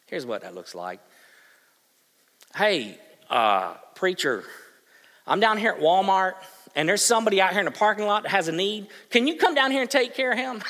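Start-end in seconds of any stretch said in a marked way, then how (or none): 2.6-10.6 a hint of a caller on the phone; congregant calling. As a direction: play a churchgoer passing the job along. Congregant phoning the preacher.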